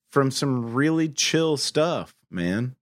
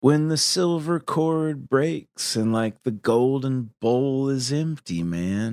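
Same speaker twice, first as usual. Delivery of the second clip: Lebowski voice. Pretend. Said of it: "the full Lebowski".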